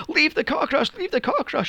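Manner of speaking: high, eerie nanny chant; mock creepy nanny. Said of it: "She's going".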